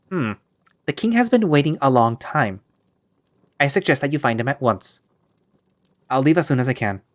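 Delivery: a hint of a stiff court servant. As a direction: play the prim servant at the door. Servant figure voiced.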